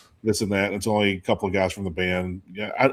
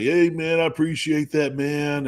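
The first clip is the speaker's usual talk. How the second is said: a lightly higher, easygoing band guy; laid-back rocker; 4 semitones higher than usual. Retold or imitated. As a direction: thank the fan casually, a bit higher. Band member voiced in story.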